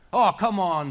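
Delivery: high, loud scoffing yell; scoffing shout. A narrator's reading. Charlie brushes off the old man of the sea, loud scoffing yell.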